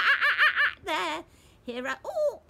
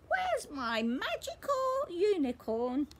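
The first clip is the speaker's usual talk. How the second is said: higher, pleading little-pig voice; whiny Peppa; 7 semitones higher, 3 dB louder than usual. Acted. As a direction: whine it like a let-down child. Peppa searching again.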